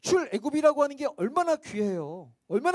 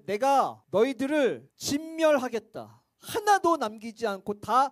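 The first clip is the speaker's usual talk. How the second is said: threatening God; slower than usual. Acted. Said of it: "엄포를 놓".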